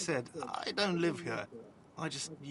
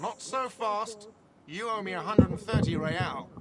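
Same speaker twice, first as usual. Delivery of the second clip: indignant demand; 7 semitones higher, 7 dB louder than usual. Acted. Manager demands unpaid money.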